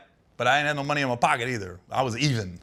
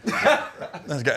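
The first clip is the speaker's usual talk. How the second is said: ordinary talk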